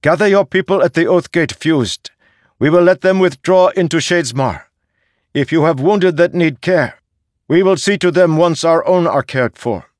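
high, loud, commanding and fast; decisive emperor. Acted. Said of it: "with the decisive voice of an emperor".

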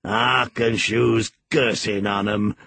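put-on slow Yorkshire old man muttering. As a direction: grumble it like an old Yorkshire servant. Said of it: "muttered Joseph".

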